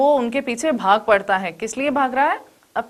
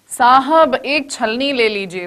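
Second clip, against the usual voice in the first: soft polite plea. Shown as a demonstration. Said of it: "विनम्र स्वर में यानी कि बहुत सॉफ्ट टोन में".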